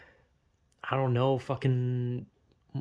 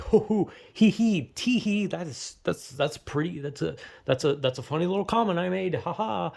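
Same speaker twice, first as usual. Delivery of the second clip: self-amused chuckle; 2 semitones higher than usual. Retold or imitated. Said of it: "and I laugh at it".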